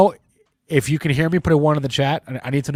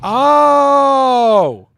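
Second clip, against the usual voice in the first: surprised realization; 11 semitones higher, 10 dB louder than usual. Real, not acted. Sudden realization of ticker meaning.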